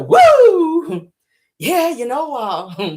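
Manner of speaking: high, put-on voice of a smug lover; mock satisfied man. Mocking the man lying in bed, smug voice. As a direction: ham up his smug pleasure.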